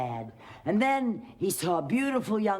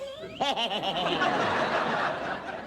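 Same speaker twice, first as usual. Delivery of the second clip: witch cackle. A narrator's reading.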